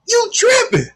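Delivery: high amused scoff; high mock disbelief through laughter; laughing tease. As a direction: tease her while laughing. Laughing at aunt.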